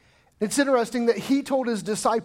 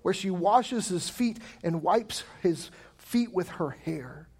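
lower, softer, savouring each "feet"; slow tender emphasis; 3 semitones lower, 4 dB quieter, slower than usual. Shown as a demonstration. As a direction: soften and slow down on "his feet and wipes his feet with her hair". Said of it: "this is an intense moment of love".

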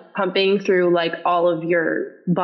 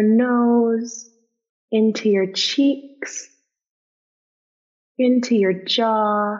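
yoga voice. Acted. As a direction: soothe them through the breathing, unhurried. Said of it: "So I'm gonna turn on my yoga voice, which is different from my normal voice".

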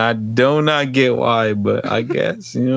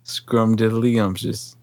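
slow, put-on bass voice; slower than usual. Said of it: "try to put some bass in his voice".

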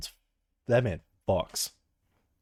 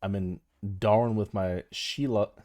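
attempted Aussie helpline voice; Australian accent. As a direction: have a go at sounding Australian. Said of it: "Can you do a-, Australian?".

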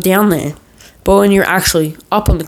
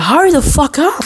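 high, pushy call down the hill; mock impatient boyfriend; 9 semitones higher than usual. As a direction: imitate him rushing her. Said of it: "And he'd be like".

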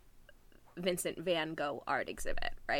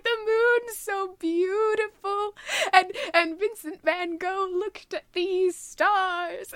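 tearful quote; 14 semitones higher, 8 dB louder than usual. Retold or imitated. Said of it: "She's like".

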